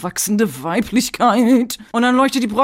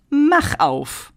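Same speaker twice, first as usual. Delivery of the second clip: put-on magical girl call; 6 semitones higher than usual. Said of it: "sie sagt tatsächlich".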